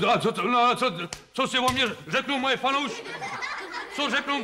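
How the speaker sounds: hammed-up fed-up star, pitched high; exasperated star. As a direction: blow up in comic exasperation. Star losing his temper.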